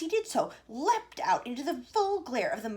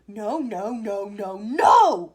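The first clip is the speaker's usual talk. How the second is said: louder no's, rising; cried; 13 dB louder, much slower than usual. A narrator's reading. Wonka crying out as Mike runs. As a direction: cry out to stop him. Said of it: "cried Mister Wonka".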